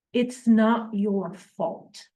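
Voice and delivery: slow, gentle absolution; loving and sympathetic. Acted. Nate forgiving the man he kills, slow and loving. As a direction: say it slowly, as pure forgiveness. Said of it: "looks at him with love and sympathy".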